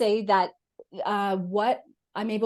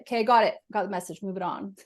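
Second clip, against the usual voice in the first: brisk dismissal; faster than usual. Retold or imitated. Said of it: "I just tap my collarbone and I'll be like".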